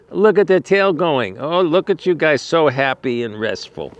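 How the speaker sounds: high, bright delight at the horses; delighted cooing. Real, not acted. Owner cooing at horses resting in the field, delighted. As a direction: coo over them like happy pets.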